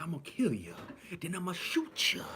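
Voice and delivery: mock crackhead threat.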